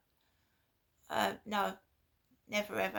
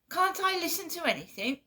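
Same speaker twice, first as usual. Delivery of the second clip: retold shouting; 7 semitones higher, faster than usual. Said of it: "Started shouting down the phone".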